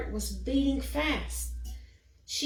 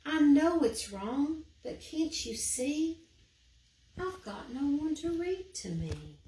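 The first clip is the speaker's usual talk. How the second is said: tearful creature; 5 semitones higher than usual. Acted. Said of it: "softly he began to cry".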